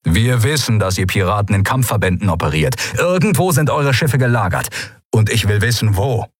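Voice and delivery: a touch sharper, cutting demand. Acted. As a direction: press him hard for an answer. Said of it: "die Stimme des Admirals wurde schärfer".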